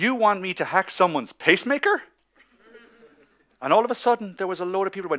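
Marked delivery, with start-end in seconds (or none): 0.0-2.0 loud, raised, pointed voice. Sitting in a lounge on the phone, he retells his own line in a loud voice. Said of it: "in a loud voice".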